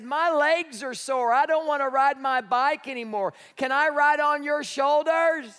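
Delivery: lightly imitated tired little girl; complaining child.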